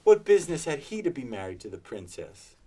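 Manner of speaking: high, loud, gleeful storybook rant; between laughing and crying. A narrator's reading. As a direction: relish every figure with giddy glee. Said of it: "in a most extraordinary voice, between laughing and crying".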